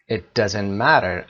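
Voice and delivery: slow, word-by-word teacher reading; slow dictation. Shown as a demonstration. Teacher repeating the phrase slowly for students. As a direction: read it out slowly so the class can follow. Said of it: "teacher repeats slowly for class".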